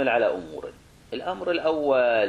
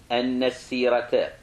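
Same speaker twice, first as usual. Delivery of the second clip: slow, measured dictation; dictation pace; slower than usual. Real, not acted. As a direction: say it slowly for students to write down. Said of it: "تدري تكتبها على راحتك".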